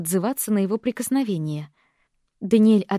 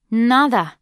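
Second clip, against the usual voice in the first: snapped; 6 dB louder than usual. Acted. Cousin snaps.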